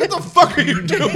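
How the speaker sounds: high, loud mock outrage; hammed-up yell breaking into laughter; upset Michael. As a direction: imitate an appalled boss while cracking up. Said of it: "'cause Michael's so upset".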